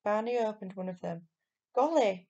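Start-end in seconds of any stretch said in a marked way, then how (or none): 1.7-2.3 loud, high surprised cry; surprised exclamation. Acted. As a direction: gasp it out in amazement. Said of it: "he exclaimed".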